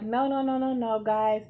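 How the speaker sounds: mild imitation of someone breaking up a fight; teacher intervening. Teacher breaking up a classroom fight, mild alarmed intervention. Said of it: "teacher's trying to intervene".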